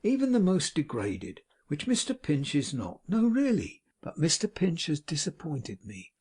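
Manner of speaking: unctuous, sanctimonious self-pity; smug hypocrite holding forth; Pecksniff. Acted. Pecksniff's long speech.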